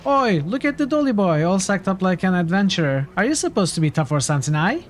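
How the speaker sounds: cocky Cockney-ish brawler taunting; jeering thug. Acted. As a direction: sneer at the dolly boy like a bully. Reads rude thug's taunts aloud.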